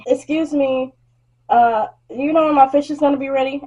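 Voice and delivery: mock polite customer asking again; a hint of an impatient customer. Customer voiced in work story.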